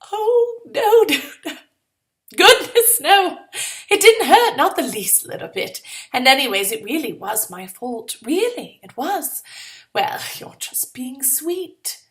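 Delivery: high, sugary insistence; falsely sweet reassurance. Acted. Girl assuring her partner the kick didn't hurt, sugary. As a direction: gush that it's nothing.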